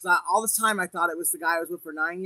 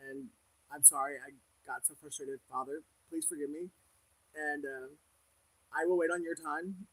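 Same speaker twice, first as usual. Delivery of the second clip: humble prayer. Retold or imitated. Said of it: "I'm like".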